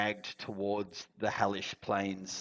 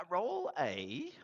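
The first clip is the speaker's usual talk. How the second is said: whispered; 11 semitones higher, 4 dB quieter than usual. Real, not acted.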